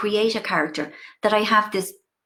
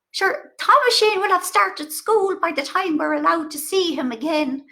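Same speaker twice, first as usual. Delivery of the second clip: mother's voice; 6 semitones higher than usual. Retold or imitated. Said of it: "poor old woman keeps saying".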